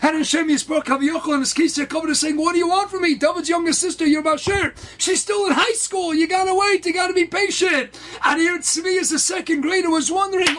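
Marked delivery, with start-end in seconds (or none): 2.4-8.0 high-pitched, insistent remonstrating; exasperated reply. Retold or imitated. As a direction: push back, urging him to hold on. God retold answering impatient suitor.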